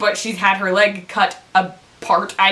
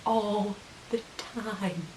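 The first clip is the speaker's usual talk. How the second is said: very slow, hushed "All the time"; drawn-out emphasis; 14 dB quieter, much slower than usual. Real, not acted. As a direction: stretch out "All the time", much softer. Repeats the phrase for emphasis.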